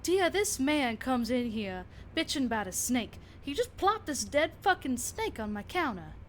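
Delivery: a furious clinic owner tearing into her husband; indignant rant. Acted. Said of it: "she goes".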